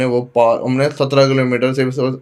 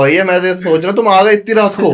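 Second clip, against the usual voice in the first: high, loud, amused chuckle through the words; laughing while talking; 7 semitones higher, 6 dB louder than usual. Retold or imitated. Dhaba man teasing the late-night travellers, laughing, higher and louder. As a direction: retell the dhaba man grinning as he speaks. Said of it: "हंसते कह".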